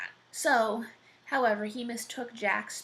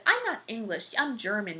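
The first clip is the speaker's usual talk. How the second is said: mock indignation, pushed a little higher and louder; indignant retort; 3 semitones higher, 4 dB louder than usual. Jack correcting the giant who called him English, indignant retort. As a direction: correct him with mild outrage.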